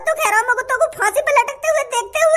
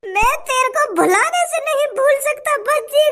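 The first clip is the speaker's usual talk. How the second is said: mock wailing lament that breaks into a cry; hammed-up sobbing that peaks in a cry; fake crying. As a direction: overdo the grief, mostly in your own voice. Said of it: "काय को नाटक कर रहा तू मेरे सामने रोने का".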